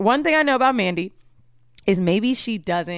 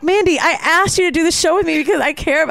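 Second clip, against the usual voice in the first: higher, heartfelt appeal, re-enacted; earnest plea, retold; 6 semitones higher, 4 dB louder than usual. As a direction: plead your case as in the quarrel. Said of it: "really saying these words".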